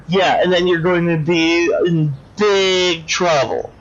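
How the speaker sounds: lightly voiced petulant little-girl villain; childish doll villain. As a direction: pout and whine like a spoiled doll. Dollface mocks the word, rants.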